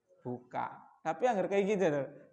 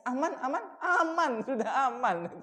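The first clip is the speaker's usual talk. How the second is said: laughing reassurance; 4 semitones higher than usual. Retold or imitated. Vendedor repite aman riendo.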